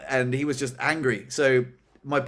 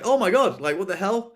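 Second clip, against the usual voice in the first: high, louder retold shock; shocked disbelief; 5 semitones higher, 4 dB louder than usual. Cashier after a baguette is lobbed at her, shocked. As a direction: react aghast, voice jumping up.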